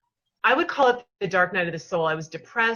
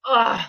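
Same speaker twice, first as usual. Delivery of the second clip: a big loud frustrated exhale; loud exasperated ugh; 6 dB louder than usual. Retold or imitated. Dropping her head after yelling at the sky, loud ugh. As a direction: let it all out in one groan. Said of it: "I took this big exhale".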